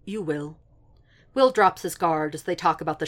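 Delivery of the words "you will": calm, slightly softened reply; quiet, unruffled certainty. A narrator's reading. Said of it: "just says calmly".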